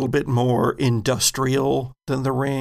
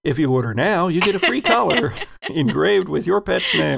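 playful TV-sales pitch, lifting higher; mock infomercial; 4 semitones higher, faster than usual. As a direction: pitch it like a joke infomercial, laughing midway.

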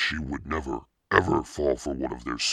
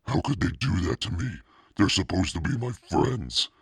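hurt indignation; 6 semitones higher than usual. Acted. Hurt angry girl running home.

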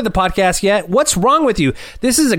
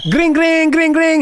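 imitated bell ringing; 9 semitones higher, slower than usual. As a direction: ring it out like a bell. Mock bell before sponsor segment.

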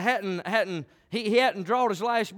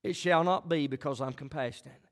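a hint of calm divine reply; God answering calmly; 2 semitones lower than usual. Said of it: "God said".

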